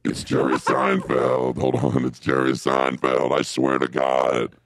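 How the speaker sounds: devil voice. Acted. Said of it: "with the devil voice".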